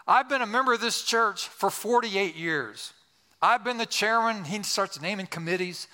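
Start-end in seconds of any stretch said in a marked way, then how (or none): 0.1-4.4 pointed tone. Retold or imitated. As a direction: imitate a crusty church boss listing his credentials. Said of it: "with a tone".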